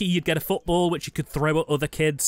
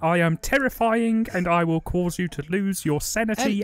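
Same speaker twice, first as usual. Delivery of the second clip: slow, loud, higher mock-menacing voice; horror voice; 4 semitones higher, 3 dB louder, slower than usual. Shows his horror movie voice to friends, hammed-up menace. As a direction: ham up a terrifying villain, drawn out. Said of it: "this is my horror voice right here".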